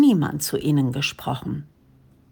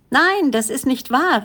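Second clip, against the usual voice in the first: higher, mild call of protest; 8 semitones higher than usual. Acted. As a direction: cry out the denial, pitched up. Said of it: "rief ein anderer". (leicht erhobener Zwischenruf, höher)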